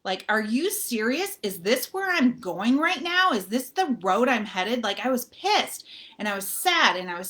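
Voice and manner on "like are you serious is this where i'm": slow, choked-up disbelief; upset whisper of disbelief; tearful disbelief. Retold or imitated. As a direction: let it drag out, near tears. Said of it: "I start crying".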